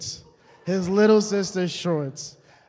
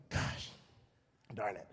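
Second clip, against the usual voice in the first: quiet groan; 9 semitones lower, 14 dB quieter than usual. Retold or imitated. Shorts lost, gives up.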